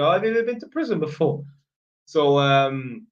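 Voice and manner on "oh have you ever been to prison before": light, curious quote from a female tenant; a hint of a girl asking, a touch brisk; lightly voiced young woman asking; imitating a girl tenant. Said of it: "some of the chicks have asked me".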